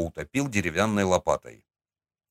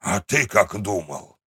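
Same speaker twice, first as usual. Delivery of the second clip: усмешливый старик. Acted. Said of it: "хмыкнул Игнат Ерофеевич".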